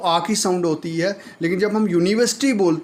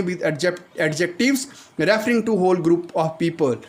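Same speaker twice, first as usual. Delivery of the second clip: slow dictation; much slower than usual. Shown as a demonstration. Rule read again slowly.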